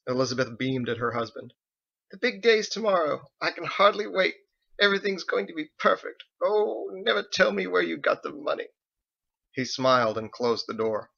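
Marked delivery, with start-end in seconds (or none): 2.1-8.7 put-on higher, bright voice of an eager older woman; excited wife. Wife telling husband about the big day, excited. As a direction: bubble over about tomorrow.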